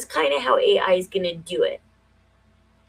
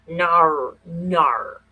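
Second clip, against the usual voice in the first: Australian accent; 3 semitones lower than usual. Shown as a demonstration. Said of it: "I love the Australian accent".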